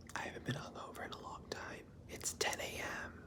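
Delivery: whispered. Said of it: "and I'm whispering".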